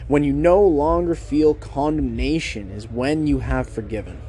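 slow, deliberate reading of the quote. Shown as a demonstration. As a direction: lean into each word, reading it out slowly. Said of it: "Here's a quote for you".

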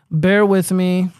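"Bear with me" stretched very slowly; slow drawn-out plea. Real, not acted. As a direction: draw out "Bear with me" to stall for time. Repeats it drawn out while searching.

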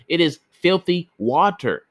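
high, indignant neighbor; fierce exclamation. A narrator's reading. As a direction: spit it out in disgust. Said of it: "exclaimed fiercely".

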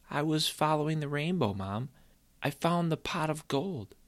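proud to tell mom his find; boy telling mom he found the gold, earnest; lightly voiced eager boy. Boy explains to mother.

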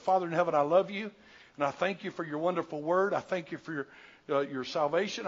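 earnest, steady prayer voice; a pastor's heartfelt prayer; closing prayer. Acted. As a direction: pray over the congregation.

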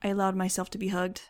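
ordinary delivery

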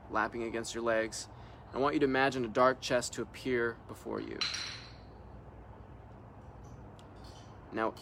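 guided visualisation in measured phrases with pauses; guided meditation. Real, not acted. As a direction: lead listeners gently through an imagined scene.

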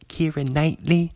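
a hint of put-on British; British accent. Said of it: "trying to do my British accent".

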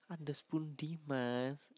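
kados pundi said through a laugh; laughing repeat. Shown as a demonstration. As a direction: giggle while repeating the phrase. (sambil tertawa)

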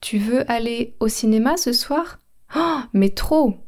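drawn-out thrilled mais trop; slow, gushing yes. Shown as a demonstration. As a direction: say it again, stretching the trop. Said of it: "Je répète".

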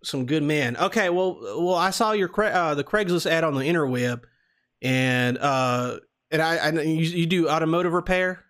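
put-on Southern prank caller; Southern accent. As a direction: talk like a folksy Southern customer. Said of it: "we're doing the Southern accent".

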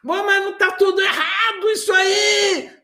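mock outraged shout, high-pitched; terapeuta dando bronca. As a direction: scold the patient in loud, exaggerated indignation. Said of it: "Imagina você vai no terapeuta, ele começa". (bronca exagerada aos gritos)

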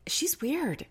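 put-on high, slow babyish voice. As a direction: keep the baby voice going. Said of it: "has a baby voice".

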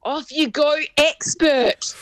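high, loud, disbelieving repeat; shocked echo. Real, not acted. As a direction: squeal it back in disbelief. Echoing the line in shock.

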